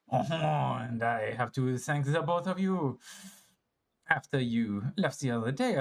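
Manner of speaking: unhurried French character voice; French accent. Acted. Kid explaining about his mom, in a French accent. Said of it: "turned English at the last second there".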